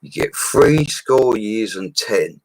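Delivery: put-on slow, solemn quote of an old saying; slow, weighty saying; quoting his mentor. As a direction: deliver it like a wise elder, drawn out. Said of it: "he said".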